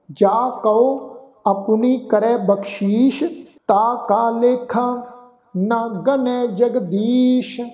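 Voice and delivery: slow, measured Gurbani reading; scripture recitation. Shown as a demonstration. Teacher recites verse for congregation, slow sustained recitation. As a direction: draw out the line endings, pausing between phrases.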